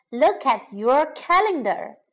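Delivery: "Look at your calendar" with each word set apart; measured, separated teaching delivery of "Look at your calendar"; careful word by word. Shown as a demonstration. Teacher models phrase slowly, then naturally.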